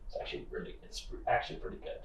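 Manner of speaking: 1 whispering. Acted. Secret kibble confession.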